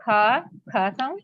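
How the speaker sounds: "kha" said slowly as an aspirated k sound; sounding out letters. Shown as a demonstration. Teacher sounding out the letter C, slowly. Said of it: "It has two sounds".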